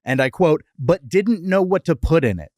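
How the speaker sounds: scripted history read, neatly phrased; podcast fact read. Acted. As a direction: read it out like a prepared segment. Reads the prepared history segment.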